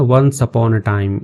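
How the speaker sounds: Once upon a time, read out very slowly word by word; slow teacher read. Shown as a demonstration. Teacher reads the phrase to students, very slowly. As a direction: spell it out slowly for learners. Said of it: "इन तीनों को एक साथ पढ़ते हैं".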